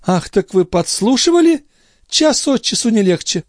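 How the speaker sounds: high, sharp noblewoman's voice; indignant young lady. A narrator's reading. Andrea scolds Gilbert for eavesdropping, indignant. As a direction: pounce on it with disdain.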